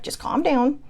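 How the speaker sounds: imitating a sibling's gentle calm-down; older sibling's calming tone. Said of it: "I think it's the tone".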